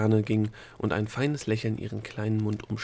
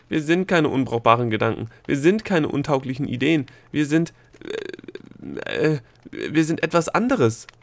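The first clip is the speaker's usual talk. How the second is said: loud, insistent protest; indignant calling out; 4 semitones higher, 6 dB louder than usual. A narrator's reading. Gnome protesting to the Egozette, calling out. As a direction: push each claim out louder, then stumble and restart. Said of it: "rief der Gnom".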